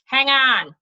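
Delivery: loud call out the window; shouting back. Acted. Jack yelling out the window at the stranger, loud. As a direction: call out to the man outside. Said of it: "he shouted".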